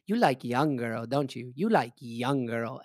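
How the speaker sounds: mock Chinese accent, slowing on the repeat; imitating Chinese-accented old lady. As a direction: insinuate in a put-on Chinese accent. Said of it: "she goes".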